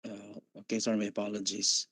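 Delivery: bad connection, voice breaking up; faint, cutting out over a weak line; choppy audio. Real, not acted. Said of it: "you're very choppy".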